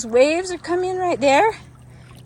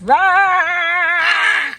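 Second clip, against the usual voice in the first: monster roar. Pretend. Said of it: "Did I scare you?".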